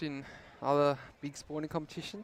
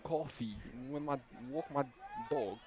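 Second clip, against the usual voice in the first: bad New Jersey accent; 4 dB quieter than usual. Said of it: "that went terrible".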